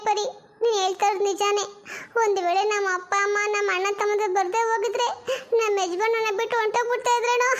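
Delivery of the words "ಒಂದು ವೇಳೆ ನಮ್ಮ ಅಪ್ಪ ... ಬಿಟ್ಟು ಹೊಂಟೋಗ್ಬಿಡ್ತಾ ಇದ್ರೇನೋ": laughing lament. Acted. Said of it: "ಬಡ್ಕೊಂತಿದ್ಯಾ".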